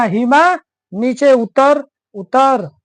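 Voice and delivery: loud call to come down off the roof; father calling out. Retold or imitated. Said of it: "उसने कहा".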